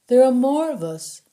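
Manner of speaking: a prisoner scared into talking; fearful captive. Acted. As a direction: blurt it out scared. Prisoner bargaining in fear.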